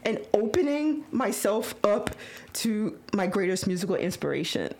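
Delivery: awed whisper. Retold or imitated. Overwhelmed talking to idol.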